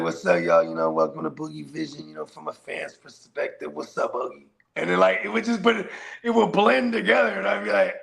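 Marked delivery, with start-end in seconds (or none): 0.0-4.5 low, smooth Brooklyn host voice; lightly done slick Brooklyn intro; Slim's Brooklyn accent. Retold or imitated. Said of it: "He'd be like".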